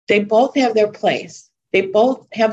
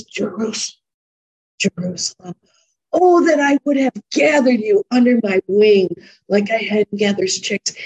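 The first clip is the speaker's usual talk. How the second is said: tender, heartbroken. Retold or imitated. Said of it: "Tender, loving, heartbroken".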